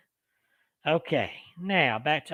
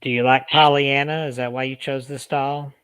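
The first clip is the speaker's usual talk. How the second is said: calling to spirit. Acted. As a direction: ask each question clearly for the recorder. Questions spirit on recorder.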